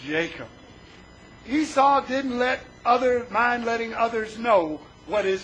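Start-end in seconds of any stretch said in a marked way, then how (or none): 0.1-0.5 low, deliberate retold threat; brooding anger. Angry brother plotting in his mind, low mock menace. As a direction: sink low into an understated menace. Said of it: "Esau was so angry".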